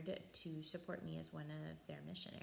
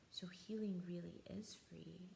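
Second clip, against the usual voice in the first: tearful whisper. Retold or imitated. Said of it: "she just started crying".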